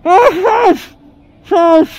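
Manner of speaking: pained swearing. Real, not acted. Held down, swearing in pain.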